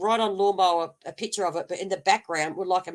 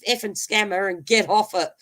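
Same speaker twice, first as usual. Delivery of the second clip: quoting the girl telling the scammer to get lost, loud and mocking; mocking brush-off; 3 semitones higher, 4 dB louder than usual. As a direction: tell the scammer off with scorn. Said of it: "the girl goes".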